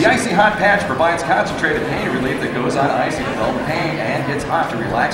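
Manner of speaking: brisk sponsor copy read; fast read. Real, not acted. Announcer reading sponsor copy on the show, fast read. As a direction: rattle off the ad copy. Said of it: "he has to read it fast".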